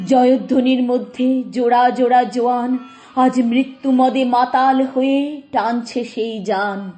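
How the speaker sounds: driving, emphatic verse recital; forceful declamation. Acted. Onlooker describing frenzied youths pulling the chariot, forceful declamation. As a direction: declaim it with the surge of the crowd.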